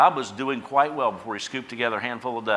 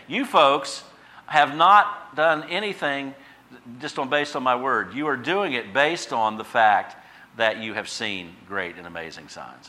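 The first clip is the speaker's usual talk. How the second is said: sighing Jesus; 3 semitones higher, 6 dB louder, slower than usual. Acted. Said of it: "some sigh in his voice".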